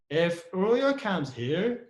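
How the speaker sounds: very slow "If" clause, tune rising; stress on IF. Shown as a demonstration. Teacher repeating the Ruya example, stressed "If". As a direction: lean on "If", stretching the condition. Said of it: "you put a stress on, on if here".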